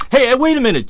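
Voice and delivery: high, loud call to someone walking away; calling after him. Retold or imitated. Jake calls the stranger back across the station, loud and high. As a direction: shout him back before he's gone.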